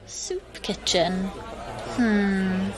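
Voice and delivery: slow, soft, disbelieving scoff; drawn-out quiet contempt; scornful scoff. Acted. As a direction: sneer at the excuse under your breath. Scoffing at Alex's soup kitchen.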